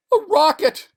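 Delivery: very high, loud burst of disbelief; astonished cry. Acted. Stranded man seeing the rocket, astonished shout. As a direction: shout it out as hope returns. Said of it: "he said, standing up".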